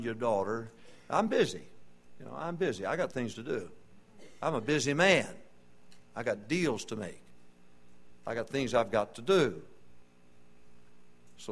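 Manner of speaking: a hint of a brushed-off, hurried witness who keeps putting it off; lightly voiced busy man, dismissive and distracted; mock busy Christian. Preacher mocking a lazy believer, offhand and dismissive.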